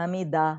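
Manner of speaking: حمیدہ with a stressed long ی; wrong long e. Retold or imitated. Teacher imitating her old mistake حمیدہ. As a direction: imitate saying حمیدہ instead of حمدہ. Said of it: "میں تو حمیدہ کرتی تھی".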